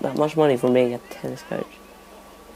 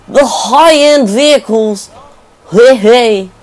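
hammed-up Indian accent, higher and louder; joking Indian accent for the car chase; 8 semitones higher, 6 dB louder than usual. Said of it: "in my Indian accent".

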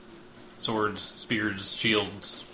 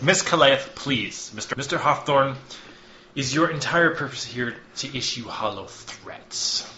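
raised, stern plea for order, then a cool challenge; exasperated official; 4 semitones higher, 4 dB louder than usual. Acted. Chamber speaker calling for order, exasperated and stern. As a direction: hush her, then challenge him.

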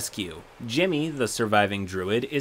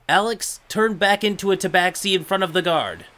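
put-on bossy kid voice; 7 semitones higher, 5 dB louder than usual. Kid demands transformation.

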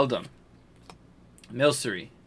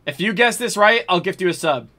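excited offer; 5 semitones higher, 4 dB louder than usual. Real, not acted. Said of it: "same offer repeated".

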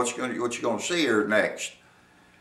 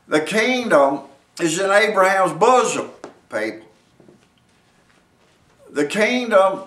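raised, punchy sermon delivery; emphatic preaching; 4 semitones higher, 4 dB louder than usual. Real, not acted. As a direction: drive each phrase home to the congregation. Preacher presses his point.

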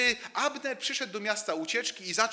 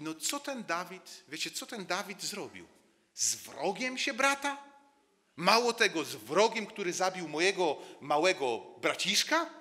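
indignant outrage. Acted. Joab rousing his men against Dawid, indignant and rising. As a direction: stir the listeners against the traitor king.

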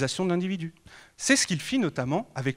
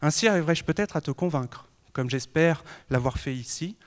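déclamation poétique; 4 dB louder than usual. Acted. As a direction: declaim verses to the lawmaker. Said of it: "lui déclamer ces quelques vers". (déclamation solennelle de vers)

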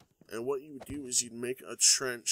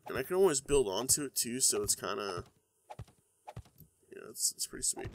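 stuffy nose, a little sick; talking with a blocked nose; congested voice. Real, not acted. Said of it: "my voice sounds crappy today".

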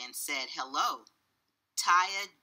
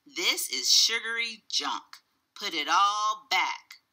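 loud, emphatic telling-off; scolding father; 4 semitones higher, 5 dB louder than usual. A narrator's reading. Father orders Taya to return the chocolate, scolding. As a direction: lay down the law to a child.

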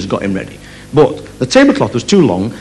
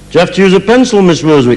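higher, lightly voiced kid question; clueless schoolchild; 3 semitones higher than usual. Pupil with hand up after the explanation, lightly childlike. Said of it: "put their hand up and say".

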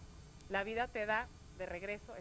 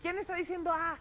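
higher, louder shouted question; raised-voice challenge to a stranger; calling out; 7 semitones higher, 5 dB louder than usual. A narrator's reading. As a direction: shout it into the mountains. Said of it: "empieza a gritar".

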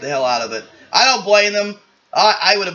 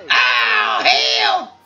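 high-pitched cry of hurt; pained yell; 4 dB louder than usual. Acted. Character getting hit, high pained shout. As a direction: yelp it high as if struck.

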